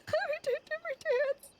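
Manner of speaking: high, teary and stretched out; laughing through tears. Real, not acted. Streamer trying a dance, teary laughing.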